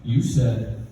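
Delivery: slow, low principal voice; stern principal. Retold or imitated. Principal accusing the boy in his office, gravely. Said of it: "He's like".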